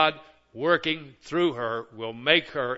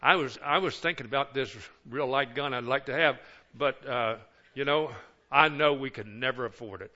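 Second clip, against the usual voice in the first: wistful hinting. Shown as a demonstration. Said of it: "I say it like this".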